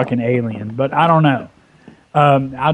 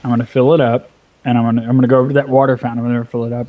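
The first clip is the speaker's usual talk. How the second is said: playful threat; 3 semitones lower, much faster than usual. Retold or imitated. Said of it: "and just jokingly, playfully".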